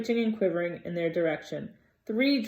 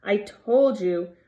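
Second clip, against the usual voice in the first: breathless, a bit slow, louder; gasping; 3 semitones higher, 6 dB louder, slower than usual. A narrator's reading. Hermione out of breath, repeating it to the boys, gasping. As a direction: gasp it out again, out of breath. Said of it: "Hermione gasped".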